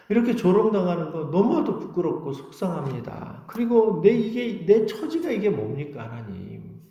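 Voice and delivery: acted exasperated lament; pleading complaint. Believer asking God about their plight, pleading complaint.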